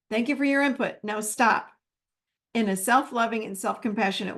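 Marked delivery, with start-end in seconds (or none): 0.1-1.7 firm but kind. Shown as a demonstration. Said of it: "I just say it out loud".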